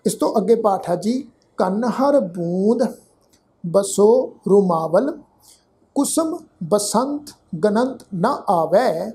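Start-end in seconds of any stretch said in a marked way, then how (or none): 1.6-9.1 measured, deliberate chanting of the verse; slow scripture recitation. Acted. Teacher recites the savaiya to the sangat, slow and measured. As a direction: recite each word slowly and clearly.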